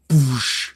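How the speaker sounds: spoken boom with a long hush; airy mouth-made blast; imitated explosion. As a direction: make an explosion noise by mouth.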